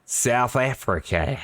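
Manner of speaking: put-on slow, drawn-out South African accent try; a shaky, half-hearted South African accent; attempted South African accent. Commentator tries a South African accent, badly. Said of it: "I can't really do a South African accent".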